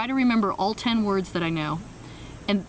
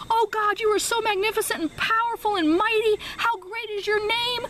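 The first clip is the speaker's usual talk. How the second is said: grand fluent prayer; 13 semitones higher than usual. Retold or imitated. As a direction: pray with sweeping reverence. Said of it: "her prayer was like".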